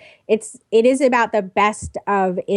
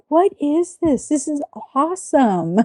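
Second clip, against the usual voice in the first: put-on higher, amazed teenage self; excited teen; 6 semitones higher than usual. Recalling a family vacation, a mock teenage gush. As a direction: gush like a kid seeing MTV first time. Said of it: "I was like".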